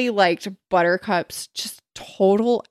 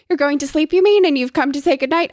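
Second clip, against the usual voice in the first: high, louder, hammed-up grand lady; swooping mock-genteel politeness; fancy tone; 7 semitones higher, 4 dB louder than usual. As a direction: gush with put-on graciousness. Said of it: "but she still held to fancy".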